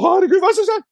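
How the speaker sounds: very high-pitched mock alarm; retold panic. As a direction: act out a child suddenly panicking. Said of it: "Og jeg får helt panikk". (gjenfortalt panikk, lys stemme)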